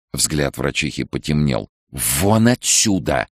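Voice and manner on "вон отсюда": slow hissed order to get out. A narrator's reading. Head doctor hissing at Nicole to leave. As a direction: spit it out slowly through the teeth. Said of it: "зашипела".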